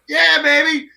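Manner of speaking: high, thrilled cheer; gleeful yeah baby. Retold or imitated. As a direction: jump at the idea with glee. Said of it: "I'm like".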